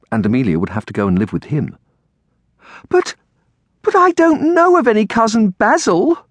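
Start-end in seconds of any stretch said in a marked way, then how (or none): 2.9-6.2 put-on high, loud, stammered girlish protest; distressed cry. A narrator's reading. Girl protests to aunt about unknown guardian, crying out. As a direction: cry out as a dismayed child. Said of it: "cried Amelia to Aunt Felicia".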